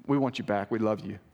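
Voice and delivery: gentle and sincere; tender appeal. Acted. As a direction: ease down into a caring plea. Loving appeal to straying friend.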